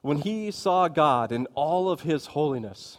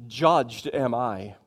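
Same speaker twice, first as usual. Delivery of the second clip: very slow, solemn self-condemnation; Isaiah's cry; 2 semitones lower, much slower than usual. Acted. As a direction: draw out each word as a grave confession. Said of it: "Isaiah is crying out".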